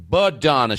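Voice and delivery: tired of correcting people; firm correction. Retold or imitated. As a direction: set them straight on Badonna. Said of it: "introducing herself to someone new".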